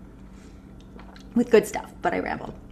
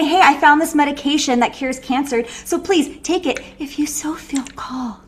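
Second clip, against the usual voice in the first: higher, fading to a whisper; timid doctor trailing off; mock timid doctor; 5 semitones higher than usual. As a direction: hedge the cure shyly. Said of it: "you think he's gonna say".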